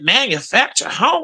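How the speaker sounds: "Manufactured home?" with disbelief and a rising end; incredulous question. Retold or imitated. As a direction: ask it like you can't believe what you heard. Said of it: "I said".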